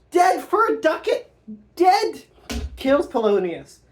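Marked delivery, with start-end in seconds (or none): 0.1-2.2 much higher, louder frantic shout; wild shout. Acted. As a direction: stab and yell it. Hamlet stabs Polonius.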